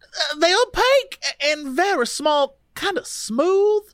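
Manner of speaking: a hint of Louisiana in a dazed recollection; Louisiana accent. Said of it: "read her in a Louisiana accent".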